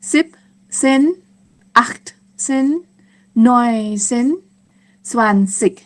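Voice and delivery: spaced-out teaching count; slow counting. Shown as a demonstration. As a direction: say each number separately, pausing after it. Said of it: "ถ้านับเร็วๆ ก็จะเป็น". (นับช้าๆ ชัดๆ ทีละคำ)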